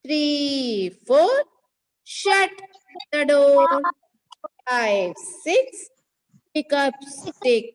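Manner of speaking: halting teacher-led rhyme, phrase by phrase; number rhyme recitation. Shown as a demonstration. Teacher revises the number rhyme once again with pupils, measured recitation. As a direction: recite in short separated phrases, leaving room to repeat.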